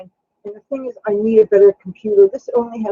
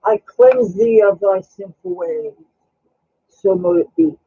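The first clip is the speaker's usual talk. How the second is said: mock witch incantation. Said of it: "Speaking of witchcraft".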